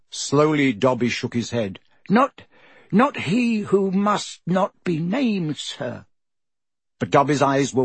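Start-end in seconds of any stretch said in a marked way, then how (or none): 2.1-6.1 high, squeaky, anxious elf; a timid little house elf pleading. A narrator's reading. Dobby voiced by narrator.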